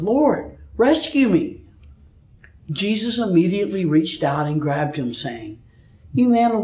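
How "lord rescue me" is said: high desperate cry for help; shouting. A narrator's reading. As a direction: call out as you sink. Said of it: "he shouted".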